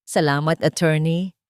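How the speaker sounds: smiling. Acted. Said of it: "nakangiting sabi ni Alvaro".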